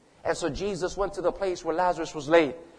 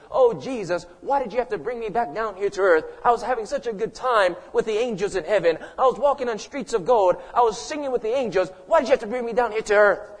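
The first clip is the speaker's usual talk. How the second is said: higher-pitched, hammed-up protest; mock complaint; 4 semitones higher, 4 dB louder than usual. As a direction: plead as if dragged away from a good time. Mock complaint of revived Lazarus.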